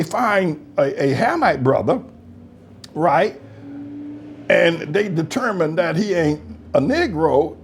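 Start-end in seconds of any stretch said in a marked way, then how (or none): none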